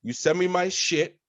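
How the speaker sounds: replaying a furious quit to the boss; retold angry rant. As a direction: lay into the manager in front of everyone. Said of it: "that's when I snapped".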